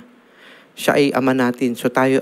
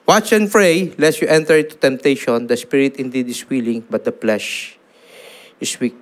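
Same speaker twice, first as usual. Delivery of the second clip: Jesus speaking. Acted. Jesus finds his disciples asleep and urges them, pleading then softening. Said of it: "Kaya sinabi niya ito".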